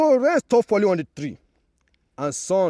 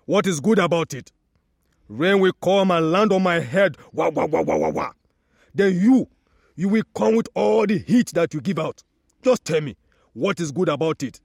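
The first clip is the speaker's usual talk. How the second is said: mildly louder complaining tree; annoyed tree; 4 dB louder than usual. Acted. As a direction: grumble at the sun. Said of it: "The tree replied".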